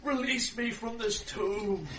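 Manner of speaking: put-on slow, high possessed old woman; possessed old lady. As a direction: chant it like a trapped spirit.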